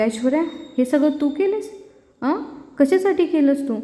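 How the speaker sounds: mother rebuking her daughter; a mock angry demand; angry scolding. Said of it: "अशी त्या ऐश्वर्याला रागवून बोलत असते".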